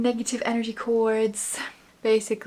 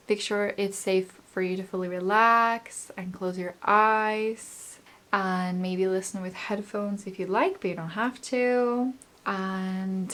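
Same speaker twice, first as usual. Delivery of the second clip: right in your ear; faster than usual. Acted. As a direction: speak close and gently into the mic. Leads an energy healing meditation.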